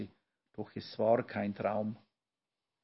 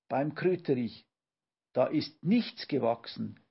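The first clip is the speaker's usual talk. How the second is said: louder, urgent gasping cry; breathless, frightened call; 4 dB louder than usual. Acted. Papa runs back terrified, calling breathlessly to family. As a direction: blurt it out after running back. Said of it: "und rief atemlos".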